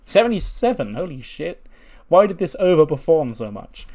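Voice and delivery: high-pitched burst of disbelief; real amazement. Real, not acted. Game player seeing an unexpectedly high match rating, amazed. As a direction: react astonished to the score.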